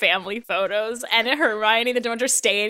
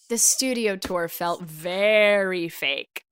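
posh review reading; 4 semitones lower, 4 dB quieter, much slower than usual. Shown as a demonstration. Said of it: "they're talking and, like, one did not".

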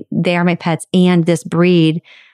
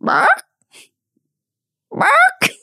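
very high squeaky peeping bark; tiny high chick cry; chicken peep. Retold or imitated. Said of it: "I heard".

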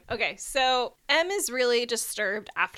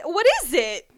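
normal talking voice

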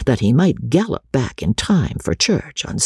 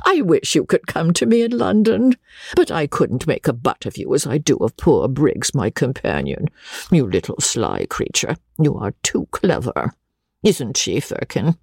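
put-on delighted old lady. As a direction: coo over her new favourite.

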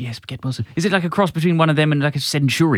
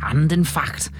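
Sheikh Vizier; slower than usual. Acted. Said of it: "The voice continues".

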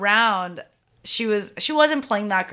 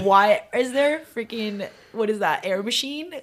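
incredulous, climbing higher as it goes; amazed disbelief; 3 semitones higher than usual. Retold or imitated. Golfer reliving the first-tee smoke machine, amazed disbelief. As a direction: act out astonishment, building in pitch.

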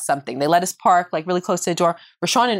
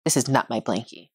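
put-on low grumpy kid; 10 semitones lower, 6 dB quieter than usual. Child voiced, stubborn.

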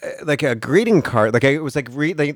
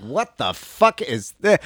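1 baffled; 4 semitones higher, slower than usual. Retold or imitated. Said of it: "I was like".

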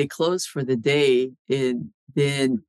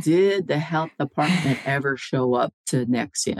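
insistent repeated question. Retold or imitated. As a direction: press the witness word by word. Repeats the unanswered question slowly.

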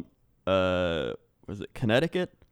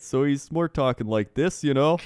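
lightly put-on Canadian accent; a touch of Canadian in the voice; 3 semitones higher than usual. Shown as a demonstration. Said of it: "need you to use that accent".

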